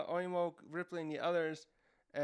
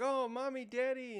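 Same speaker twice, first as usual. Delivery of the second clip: put-on kids crying for parents; 9 semitones higher, 3 dB louder than usual. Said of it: "the kids are like".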